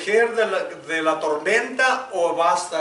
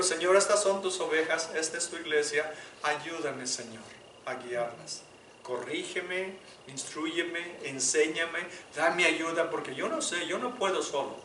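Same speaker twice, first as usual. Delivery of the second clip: humble prayer; 5 dB quieter than usual. Retold or imitated. Pastor acts out his own prayer.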